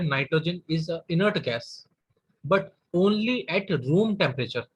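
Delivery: stretched-out dictating voice; slow dictation. Shown as a demonstration. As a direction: dictate it slowly, word by word. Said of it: "teacher dictating key point". (धीमे लिखवाते हुए)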